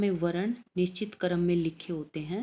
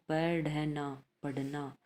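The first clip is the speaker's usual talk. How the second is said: spelling it out; 4 dB quieter, slower than usual. Shown as a demonstration. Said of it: "teacher spells word by letters".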